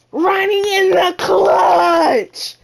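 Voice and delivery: slow, shouted play call; hype call. Real, not acted. Gamer announcing his clutch shot, slow hype shout.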